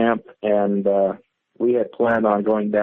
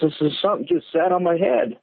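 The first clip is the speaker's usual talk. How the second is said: higher, stuttering, frightened retelling; scared stammer; 8 semitones higher than usual. Retold or imitated. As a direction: stammer it out like you've just been jolted awake. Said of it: "and he says".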